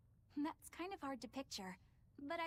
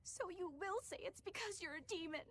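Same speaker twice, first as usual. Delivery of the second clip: higher, upset questioning; tearful reproach; 4 semitones higher than usual. Acted. Companion presses a demon for an answer, tearful. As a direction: press the accusation with tears in the voice. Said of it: "nothing to shed tears over".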